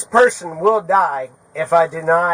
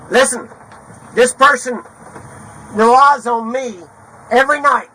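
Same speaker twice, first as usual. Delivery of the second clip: real angry yell; 4 semitones higher, 4 dB louder than usual. Real, not acted. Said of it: "I have to f***ing yell".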